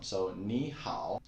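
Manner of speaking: careful Mandarin tones; tone demo. Shown as a demonstration. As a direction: model 你好 slowly. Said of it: "你 is a third tone".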